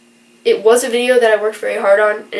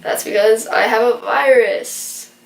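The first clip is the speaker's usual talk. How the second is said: congested, stuffed-up nasal voice; blocked nose. Real, not acted. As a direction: talk through a blocked nose. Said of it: "as you can still hear".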